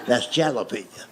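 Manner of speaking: "jalapeno" with a hard J sound, said matter-of-fact; wrong jalapeno. Retold or imitated. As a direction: cousin points at the jar: "jalapeno" with J. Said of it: "He says".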